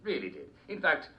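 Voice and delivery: lightly voiced eccentric old king, giddy; a hint of a batty royal, cheerful; Mad King George. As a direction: play a dotty king chatting on a talk show.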